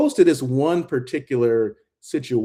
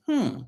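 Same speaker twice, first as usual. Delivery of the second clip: imitated thoughtful hmm; 13 semitones higher, 3 dB quieter than usual. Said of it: "that make you go".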